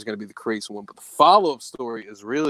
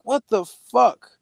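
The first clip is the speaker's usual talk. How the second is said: shocked; 10 semitones higher, 4 dB louder, slower than usual. Retold or imitated. Retold shock, shadows moving.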